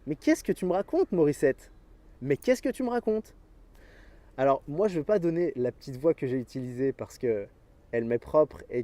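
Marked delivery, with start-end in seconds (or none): 0.1-3.3 mocking disbelief. Mocking his inner voice Morissette.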